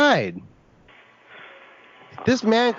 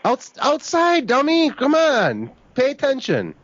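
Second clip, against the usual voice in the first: exasperated; 6 semitones higher, slower than usual. Pretend. Caller mock-exasperated at clerk.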